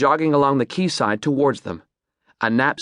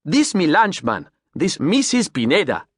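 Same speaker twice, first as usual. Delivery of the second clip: put-on higher, proud Creole-accented captain; 5 semitones higher than usual. Captain presenting his boat, Creole accent. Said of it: "stumped by his Creole accent".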